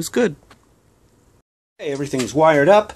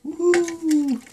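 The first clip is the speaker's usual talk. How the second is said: excited whoop. Real, not acted. Cheering a wire into place.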